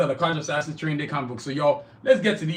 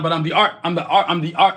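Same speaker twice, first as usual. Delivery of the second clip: laughing; 5 dB louder than usual. Real, not acted. Laughing over his own repeats.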